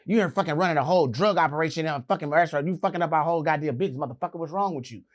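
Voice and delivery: lightly acted angry security man; acted angry rant. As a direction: berate them in a rush. Guard angrily berating the teller.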